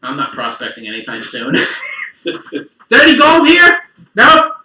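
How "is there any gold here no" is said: gruff prospector. Pretend. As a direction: bark it like a grizzled prospector. Mock prospector shouting.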